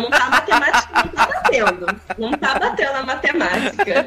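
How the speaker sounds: talking through laughter; amused, laughing it out. Real, not acted. Joking about the two quarterbacks.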